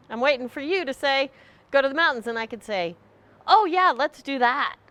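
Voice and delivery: eager hinting. Retold or imitated. Acted wishful hinting.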